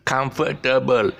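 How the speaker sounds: "comfortable" spelt out as four even syllables, com-fer-ta-ble; "comfortable" said in full, Manglish style; Malaysian pronunciation. Shown as a demonstration. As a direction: sound every syllable of "comfortable", none stressed. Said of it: "most Malaysians will spell it, uh, would, would pronounce it as".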